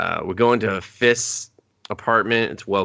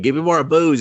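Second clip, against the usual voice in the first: higher, louder whiny chip voice; mock drunk demand; 9 semitones higher, 6 dB louder than usual. Drunk chip begging its host, raised whiny demand. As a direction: ham up a tipsy computer chip begging.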